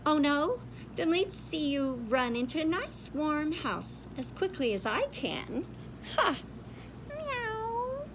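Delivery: cat voice gloating; lightly voiced cat taunt. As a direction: jeer like a smug cat.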